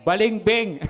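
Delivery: laughing punchline. Real, not acted. Punchline to the congregation.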